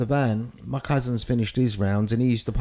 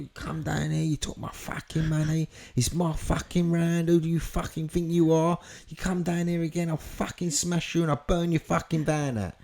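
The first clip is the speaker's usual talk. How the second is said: higher-pitched, mildly mock anger; acted threatening rant; 5 semitones higher than usual. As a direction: lay down the law in a retold rant.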